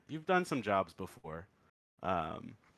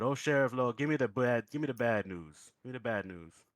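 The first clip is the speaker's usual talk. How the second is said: pleading cry; 4 dB louder than usual. Acted. Boudreaux begs in the joke.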